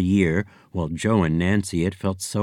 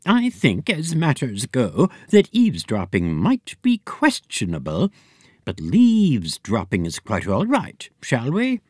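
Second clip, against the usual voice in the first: higher, lightly voiced Miss Hunch; prim fortune teller; 4 semitones higher than usual. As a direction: delicate seer confessing a weakness.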